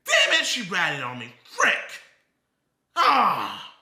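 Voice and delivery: hammed-up angry yell; mock frustrated yell. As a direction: ham up the raging streamer. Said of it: "He said".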